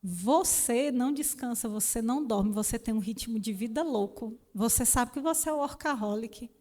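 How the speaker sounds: the Spirit rebuking a workaholic, softly and firmly; quiet stern voice of God. Retold or imitated. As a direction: scold her gently but firmly, like a disappointed father. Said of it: "Ele falou".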